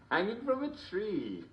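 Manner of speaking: gleeful repeat. Real, not acted. Host repeats punchline gleefully.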